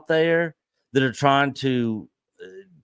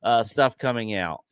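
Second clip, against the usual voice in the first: raised mock enthusiasm, settling down at the end; sarcastic; 4 dB louder than usual. Real, not acted. Host redoes his praise for confused co-host, sarcastic. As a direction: repeat the praise with knowing sarcasm.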